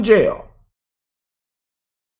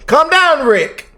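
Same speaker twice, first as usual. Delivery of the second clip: mock soothing; 9 semitones higher, much slower than usual. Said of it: "They say".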